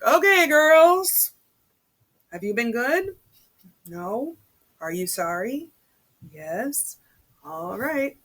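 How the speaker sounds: mock a breezy priest rushing through group confession; imitating the priest. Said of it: "he'd be like".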